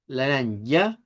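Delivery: centralized As in "laranja"; Portuguese laranja. Shown as a demonstration. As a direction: model "laranja" the Brazilian way. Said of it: "Por eso decimos laranja".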